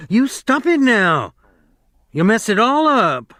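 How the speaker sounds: sharp, high angry cry; cried angrily. A narrator's reading. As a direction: snap at him, really angry. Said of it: "she cried angrily".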